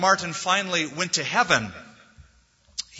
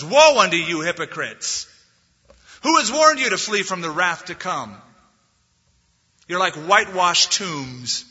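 fiery rebuke; 3 semitones higher, 5 dB louder than usual. Retold or imitated. Quoting Jesus rebuking the Pharisees.

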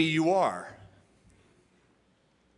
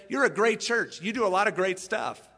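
hearty praise; 5 semitones higher, 4 dB louder than usual. Retold or imitated. Voicing Jesus praising the church.

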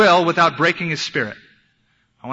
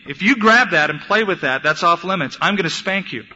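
parental warning; 3 semitones higher, 4 dB louder than usual. Retold or imitated. Father warning his toddler son.

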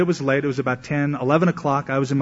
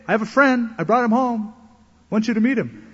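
excited roommate; 8 semitones higher than usual. Retold or imitated. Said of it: "Mark goes".

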